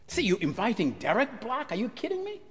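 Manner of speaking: rising, incredulous protest; a mocking outraged congregant; indignant objection. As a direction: scoff at the invitation. Congregants object to inviting Derek.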